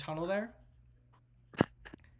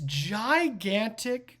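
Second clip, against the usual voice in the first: GIGANTIC drawn out and raised; dramatic stress; 4 semitones higher, 5 dB louder, much slower than usual. Acted. Game master revealing the spider, GIGANTIC heavily stressed. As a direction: stretch GIGANTIC slowly for the reveal.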